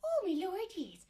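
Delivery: lightly voiced Irish housekeeper; a hint of an Irish brogue, slow; Irish accent. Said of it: "Listen to her accent".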